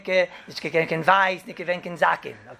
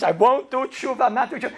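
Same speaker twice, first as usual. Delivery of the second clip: raised, higher defiant cry; retold screaming defiance; 6 semitones higher than usual. Son defiantly crying out he won't repent, a mild mock yell. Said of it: "he's screaming".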